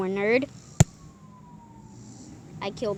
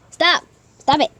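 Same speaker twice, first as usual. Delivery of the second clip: scolding dog; 4 dB louder than usual. Real, not acted.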